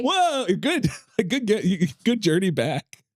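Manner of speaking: amused praise. Real, not acted. Co-host cheering her return from the tangent, high and amused.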